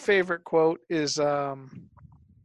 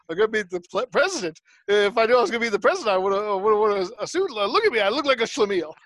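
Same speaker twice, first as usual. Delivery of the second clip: Judd Hirsch impression; 3 semitones higher, 3 dB louder, faster than usual. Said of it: "with my boy Judd Hirsch".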